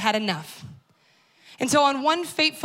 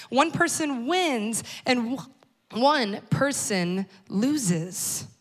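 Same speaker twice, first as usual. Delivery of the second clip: slow explanatory; much slower than usual. Shown as a demonstration. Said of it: "That's how competition works".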